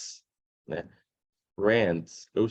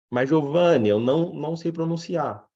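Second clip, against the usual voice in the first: lightly acted student protest, raised pitch; imitating student; 5 semitones higher, 3 dB louder than usual. Student tells the teacher they can't pronounce it, mock protest. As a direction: pipe up as an objecting student. Voices a student's worried objection.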